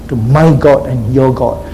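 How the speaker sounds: weight on "my" and "your"; stress on MY and YOUR. Acted. Preacher quoting Jesus to Mary, stressing "my" and "your". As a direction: set "my God" against "your God" by stressing both possessives. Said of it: "Note the emphasis, mine and yours".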